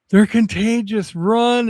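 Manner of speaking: high, loud cartoon alarm, drawn out; mock panicked yell. Moon yelling at Mars about humans, mock panicked yell. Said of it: "he's yelling at Mars".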